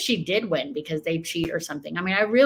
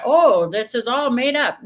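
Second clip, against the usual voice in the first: mocking quote; 5 semitones higher, 6 dB louder than usual. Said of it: "We have Kyle Clark".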